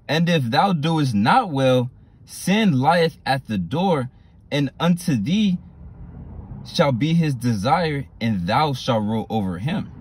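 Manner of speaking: slow, measured Bible reading; solemn scripture reading. Shown as a demonstration. Teacher reading the verse to the class, slow and solemn. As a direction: read the old words slowly so they land.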